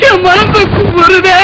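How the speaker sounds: slow, drawn-out theatrical wail; crying. Acted. Guest lamenting to the bride's father, crying. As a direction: sob it out, stretching the words. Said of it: "நீ அழுகுறத பார்த்தா".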